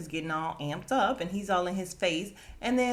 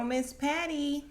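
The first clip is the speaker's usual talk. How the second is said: excited welcome; 7 semitones higher, slower than usual. Real, not acted. Excited intro of favourite character.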